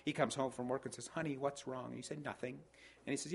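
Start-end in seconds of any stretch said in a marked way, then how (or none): 1.1-1.9 soft, higher-pitched acted concern; concerned husband. Husband home from work asking his wife, acted concern. 2.2-2.6 quiet, higher-pitched mock sulk; sulky wife. Wife answering husband home from work, mock sulky. Wife denies being upset, acted.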